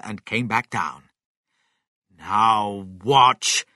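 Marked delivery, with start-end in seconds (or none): 2.1-3.7 loud, drawn-out command without raised pitch; crying out. A narrator's reading. Mister Cranky awaiting the chicken's change, crying out. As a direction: proclaim it like a showman. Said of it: "Mister Cranky cried".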